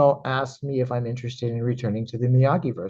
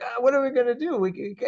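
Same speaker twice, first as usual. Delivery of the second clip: mock panic; 11 semitones higher than usual. Acted panic, snake is gone.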